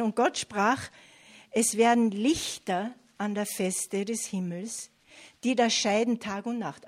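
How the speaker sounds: loud, measured reading from the Bible; Scripture reading. A narrator's reading. Preacher reads the creation verse to congregation, loud proclamation.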